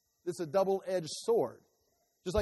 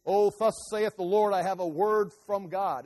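mock prophet; 5 dB louder than usual. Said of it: "look at the anemic Western church today and say".

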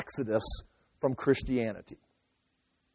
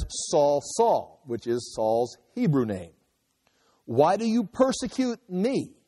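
voice of Jesus; slower than usual. Acted. Voice of Jesus calling Saul.

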